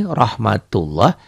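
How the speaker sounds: rahmatullah with a thick, rounded "loh"; recited pronunciation. Shown as a demonstration. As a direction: draw out rahmatullah, ending on an O sound. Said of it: "dibacanya tuh rahmatullah".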